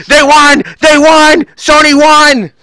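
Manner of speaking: high, loud yelling of the win; overjoyed high-pitched shriek; ecstatic shout. Retold or imitated. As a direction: scream it like your team just won. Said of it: "He's like".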